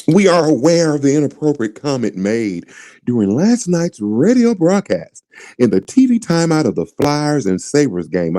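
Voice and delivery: lightly put-on formal press-release voice; mock corporate voice. Host reading the team's apology in a mock white voice. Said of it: "I'm gonna read it like a white person would read this".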